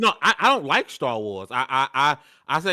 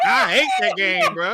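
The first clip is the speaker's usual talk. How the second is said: angry, drawn-out raised voice; whole-chested anger; 2 semitones higher, slower than usual. Real, not acted. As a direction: belt out real hatred, drawing it out. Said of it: "said it with his whole chest".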